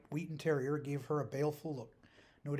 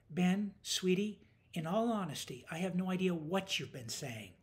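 higher, dryly patronising reply; 6 semitones higher, 4 dB louder than usual. A narrator's reading. Woman brushing off her rambling coworker, dry. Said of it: "replied dryly".

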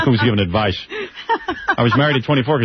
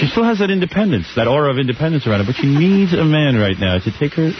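scene-setting narration. Pretend. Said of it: "I'm gonna put you in the shower".

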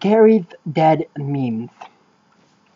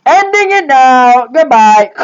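annoyed cutoff; 6 semitones higher, 5 dB louder than usual. Acted. Host cuts the call.

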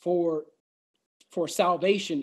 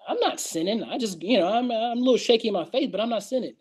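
higher, wavering mock protest; protesting in a put-on higher voice; mock self-excusing doubter; 4 semitones higher, faster than usual. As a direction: lightly play someone pleading their own case. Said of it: "you could say to yourself".

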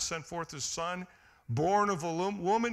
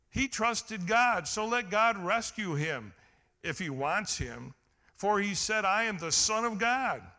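loud scoffing; 3 semitones higher, 5 dB louder than usual. Retold or imitated. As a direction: jeer it out like a mocking priest. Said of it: "they scoffed".

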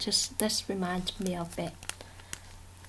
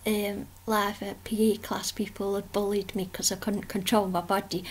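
whisper. Real, not acted. Whispered aside in art vlog.

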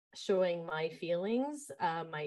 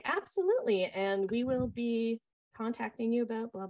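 high, bright-sounding customer-service "Absolutely"; professional phone voice; 6 semitones higher, 5 dB louder than usual. Retold or imitated. Camp director on the phone to parents in a high mock professional voice. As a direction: switch to polished phone manner for parents. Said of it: "back to my Bluetooth and being like".

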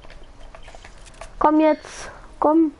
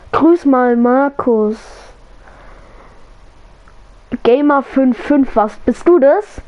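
loud shoutout; 5 dB louder, slower than usual. Real, not acted. Reading donation comment out loud.

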